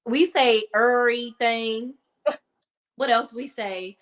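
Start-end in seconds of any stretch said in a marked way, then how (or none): 0.7-1.9 "everything" slurred to "urry-thing", drawn out; slurred accent. Shown as a demonstration. Showing how her DC accent says it, slurred pronunciation. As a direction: swallow the v in "everything", like "urr-ee-thing". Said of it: "It's the slur".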